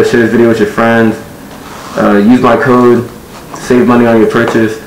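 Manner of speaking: speaking inside closed helmet; through a helmet mask. Real, not acted. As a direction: voice muffled by faceplate. Seen 0: Faceplate shut over face from -1.0; R frames show it open.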